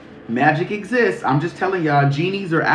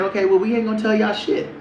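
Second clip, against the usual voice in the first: sassy retort; 5 semitones higher than usual. Retold or imitated. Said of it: "So they said".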